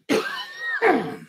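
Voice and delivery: high, sharp coughing fit; choking cough. Real, not acted. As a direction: cough on swallowed food. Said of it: "I swallowed my hot dog wrong".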